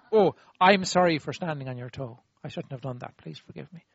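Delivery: humble demonstration of a sincere sorry; apology done properly. Shown as a demonstration. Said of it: "I'll do it again".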